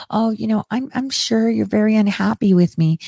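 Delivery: imitating a meek, proper reply, softly; mildly mocking, politely hesitant. Host mimics officials responding all proper, mock-meek and polite. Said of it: "all proper".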